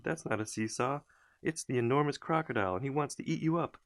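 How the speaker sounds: high, pressing monkey's warning; monkey warning children about crocodile; urgent warning. A narrator's reading. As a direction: warn them hastily. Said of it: "Mugglewump shouted".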